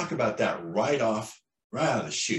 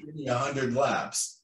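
Marine drill sergeant; 5 semitones higher than usual. Retold or imitated. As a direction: bark orders like a Hollywood drill instructor. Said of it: "the Hollywood image of the Marine".

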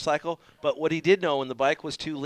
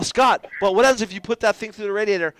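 louder, pleading; exasperated retort; 6 semitones higher, 7 dB louder than usual. Retold or imitated. The mechanic arguing with Scott, raised voice. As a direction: talk sense into him, loud.

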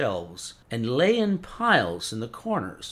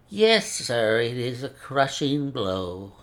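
put-on a fussy old scholar with a mincing accent; mincing foreign accent; slower than usual. Old professor laments.

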